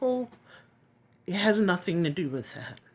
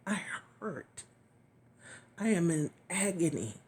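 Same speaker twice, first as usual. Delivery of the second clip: hushed confession; 6 dB quieter than usual. Retold or imitated. Retold confession to God.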